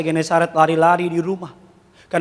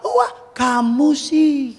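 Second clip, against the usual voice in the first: mock blaming; 8 semitones higher, much slower than usual. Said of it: "Enggak, ketika udah jatuh".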